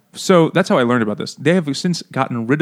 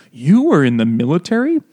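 mock surprise; 2 semitones higher, 3 dB louder than usual. Acting out her surprise.

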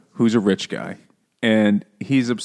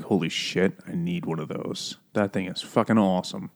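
hushed, softer awe; awestruck; 2 semitones lower, 7 dB quieter than usual. Retold or imitated. Toad seeing the motor car, hushed and dazzled. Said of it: "Toad is like".

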